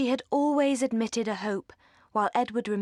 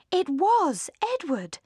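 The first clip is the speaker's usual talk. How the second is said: surprised; 9 semitones higher, slower than usual. A narrator's reading. Sudden recognition of Edward.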